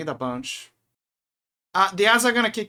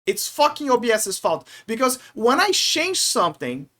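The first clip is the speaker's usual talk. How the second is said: worked-up, higher-pitched ranting; genuinely mad; 4 semitones higher than usual. Real, not acted. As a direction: rant in frustration, stressing the key words. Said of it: "I'm so mad right now".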